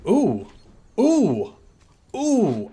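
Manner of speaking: thrilled by a neat new feature; delighted oohs. Real, not acted. Sees new interface feature.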